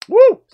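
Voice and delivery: high shrieking woo; loud whoop. Real, not acted. Reacting to sour candy.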